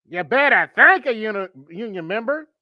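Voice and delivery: mock Southern preacher echo; mocking accent. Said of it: "A K A bullshit".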